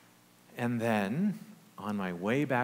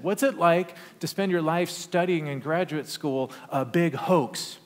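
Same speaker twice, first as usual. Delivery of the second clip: challenging question; 6 semitones higher, 6 dB louder than usual. Retold or imitated. Student challenges his faith.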